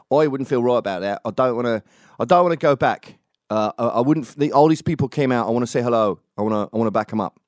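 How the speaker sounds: terrible Tommy. Retold or imitated. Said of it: "I'm doing a terrible Tommy".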